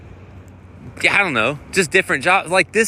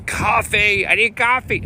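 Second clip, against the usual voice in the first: much higher, whiny craving for coffee; desperate coffee addict; 9 semitones higher than usual. Pretend. Playing a desperate coffee person craving a cup, higher whine. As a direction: beg like a caffeine-starved zombie. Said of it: "one of these".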